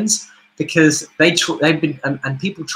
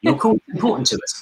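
phone menu voice. Shown as a demonstration. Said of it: "their answer phone service".

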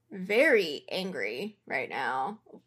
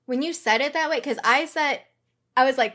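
ordinary talk, nothing marked

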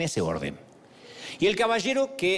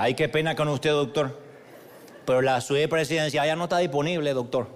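put-on apologetic Caleño accent; 3 semitones lower than usual. Clerk says the suite is unavailable, Caleño accent. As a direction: imitate a Cali clerk breaking bad news. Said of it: "me dice con su acento caleño".

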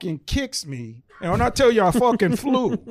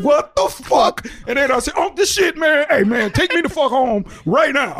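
retold outrage; 4 semitones higher than usual. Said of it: "I was so fucking mad".

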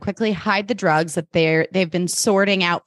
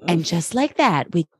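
put-on Gossip Girl. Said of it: "Gossip Girl's like".

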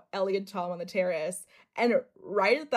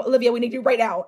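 urgent summons; 2 semitones higher, 9 dB louder, much faster than usual. Retold or imitated. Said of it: "they just go".

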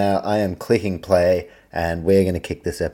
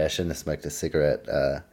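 wheezy voice; 3 semitones lower, 4 dB quieter than usual. Real, not acted. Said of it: "because now I'm wheezing".

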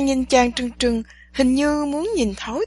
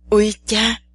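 loud yelp of pain; loud cry of pain; 4 dB louder than usual. A narrator's reading. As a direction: cry out as you fall. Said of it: "Chàng kêu lên thật to".

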